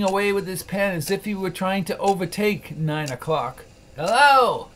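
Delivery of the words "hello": loud, higher mock-gruff bark; feigned growl. Scrooge faking his old gruffness at Bob, loud mock growl. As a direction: fake the old harshness. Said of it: "growled Scrooge, in his accustomed voice".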